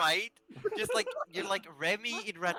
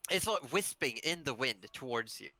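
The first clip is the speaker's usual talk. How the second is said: game master narration; 2 semitones lower than usual. Acted. GM scene narration.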